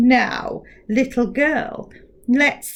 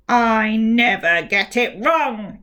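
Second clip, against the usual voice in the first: slow, loud, angry retort; snapped; 4 dB louder, slower than usual. Acted. Giant mouth snaps at Rebecca. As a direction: snap back offended. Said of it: "it snapped".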